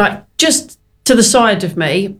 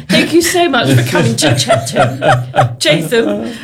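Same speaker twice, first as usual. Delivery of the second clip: laughing posh voice. Retold or imitated. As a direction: put on a posh voice, giggling. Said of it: "I put the posh voice on".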